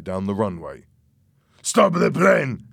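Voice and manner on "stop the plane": high, loud, drawn-out order; acted alarmed yell; sudden shout. A narrator's reading. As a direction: shout it as an urgent command. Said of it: "Louis suddenly shouted".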